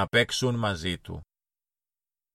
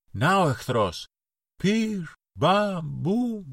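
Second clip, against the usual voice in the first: much higher shout with toy-gun bang noises; child playing war, squeaky gunfire sounds; mock battle cry; 9 semitones higher, much slower than usual. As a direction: fire the pretend guns with your voice. Boys fire at the cat.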